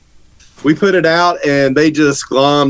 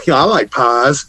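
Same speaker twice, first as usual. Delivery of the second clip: Bobby Hill; 2 semitones lower, slower than usual. Retold or imitated. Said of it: "I thought of Bobby Hill going".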